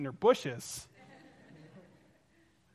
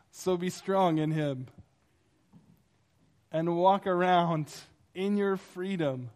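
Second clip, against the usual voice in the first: emphatic repeat; 3 dB louder, slower than usual. Shown as a demonstration. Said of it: "Let me say that again".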